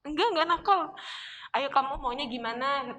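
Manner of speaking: lightly voiced mother easing to a whisper; comforting mother. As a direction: comfort her, then hush it.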